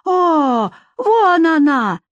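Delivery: high, drawn-out cry of triumph; jubilant. Acted. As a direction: rejoice at spotting someone. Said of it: "возликовала одна из тёток".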